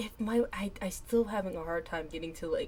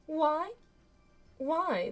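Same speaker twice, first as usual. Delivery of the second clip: shocked; 9 semitones higher, 8 dB louder than usual. Acted. Character shocked, voice raised.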